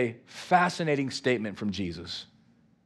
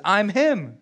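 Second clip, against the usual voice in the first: playful slang Jesus; 4 semitones higher, 4 dB louder than usual. Retold or imitated. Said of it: "Or as I would like to say, Jesus says".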